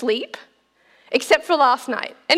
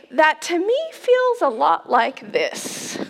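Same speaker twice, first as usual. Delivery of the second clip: slow whispered aside; slow, hushed reflection; 2 semitones higher, slower than usual. Real, not acted.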